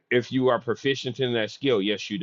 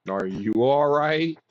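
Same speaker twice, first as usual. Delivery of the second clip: calling out; 6 semitones higher, 5 dB louder, slower than usual. Real, not acted. Checking on coughing friend.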